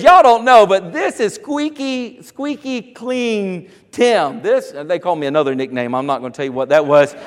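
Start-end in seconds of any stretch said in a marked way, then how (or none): 0.0-4.4 drawn-out, teasing words, slowing hard on squeaky clean; teasing introduction. Retold or imitated. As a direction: show him off with a grin. Granddad mocking him to police.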